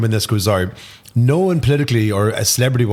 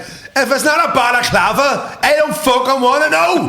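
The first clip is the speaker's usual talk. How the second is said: mock retort, laughing; 3 dB louder than usual. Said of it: "And I was like".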